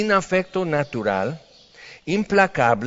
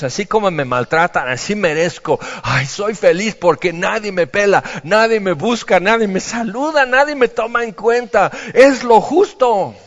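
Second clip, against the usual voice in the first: higher and louder, climbing into self-pity; mock martyr whine; 4 semitones higher, 4 dB louder than usual. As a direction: play the sighing martyr, building up. Mocks a martyr's resigned complaint.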